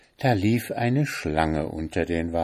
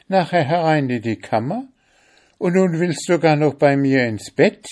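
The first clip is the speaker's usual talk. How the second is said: higher and louder, rising in fury; angry scolding; 8 semitones higher, 5 dB louder than usual. Acted. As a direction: list every grievance, building anger. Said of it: "rief Oda zornig aus".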